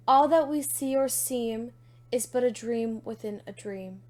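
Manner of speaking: measured, dramatic poetry reading; poem recitation. Acted. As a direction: recite with weighty pauses between phrases. Reads a poem aloud.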